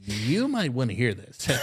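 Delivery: hammed-up Russian accent, uneasy; a bad Russian accent. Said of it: "that's my Russian accent".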